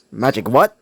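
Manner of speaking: puzzled question; confused. Acted. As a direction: ask it mildly baffled. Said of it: "said a somewhat confused".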